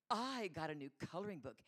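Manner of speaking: put-on little girl showing off, stretched words; lightly mocked playground brag; bragging child. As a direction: imitate a four-year-old's boast. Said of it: "she said it like that".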